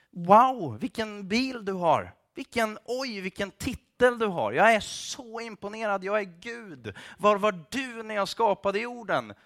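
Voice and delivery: hammed-up amazement; sarcastic awe. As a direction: gush as if hugely impressed, meaning none of it. God mock-impressed by human status.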